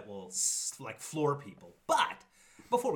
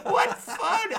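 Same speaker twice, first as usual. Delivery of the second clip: mock cheer through laughter; 10 dB louder than usual. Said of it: "I'm like".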